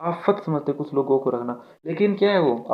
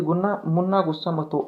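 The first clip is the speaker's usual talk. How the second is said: put-on soothing a child; 4 dB quieter than usual. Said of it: "ऐसे नहीं बोलते".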